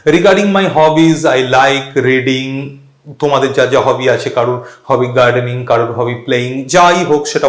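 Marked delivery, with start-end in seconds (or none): 0.1-2.7 slow model sentences; teacher modelling an intro; sample answer. Shown as a demonstration. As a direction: say it slowly as an example for students. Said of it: "এরকম ভাবে আমি বলতে থাকবো".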